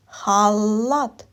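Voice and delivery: халат with a long hard л; drawn-out L. Shown as a demonstration. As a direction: hold the л in халат. Teacher highlights sound L in word.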